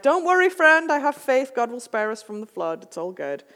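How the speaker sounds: sweetly pious, dismissing the danger; serene stubborn pastor. Retold or imitated. Stubborn pastor reassuring the boat rescuer, high and serene. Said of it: "And the pastor's like".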